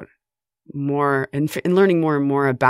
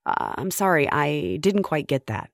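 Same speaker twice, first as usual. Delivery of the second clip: confused automated voice; 2 semitones higher than usual. Retold or imitated. Automated phone system failing to understand caller, confused voice. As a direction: imitate a phone robot feigning confusion. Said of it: "the automated voice would sound confused".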